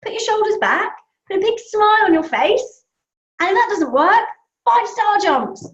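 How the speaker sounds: rally the little one, upbeat; cheery coaching. Retold or imitated. Mum cheering up a sad boy, upbeat and encouraging. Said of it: "so I said to Charlie".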